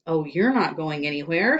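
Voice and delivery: loud shout. Acted. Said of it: "shouted Mister Kidswater".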